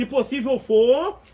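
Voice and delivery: slow, drawn-out plea to the Father; hesitant prayer. Retold or imitated. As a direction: pray it haltingly, stretching each word. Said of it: "Não, ele falou assim". (Jesus orando ao Pai, lento e hesitante)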